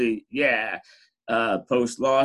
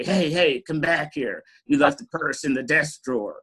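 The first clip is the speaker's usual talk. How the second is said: mock call higher and louder; calling after; 4 semitones higher, 3 dB louder than usual. Friend calling after the colleague who left the purse, mock call. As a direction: call out hey hey to bring them back. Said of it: "and he'd say".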